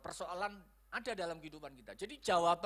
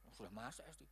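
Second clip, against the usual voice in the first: muttered reply; 8 semitones lower, 13 dB quieter, faster than usual. Acted. Acts wife's reply, low and quiet.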